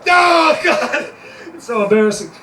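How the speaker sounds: hysterical confession. Acted. Prisoner confessing in anguish.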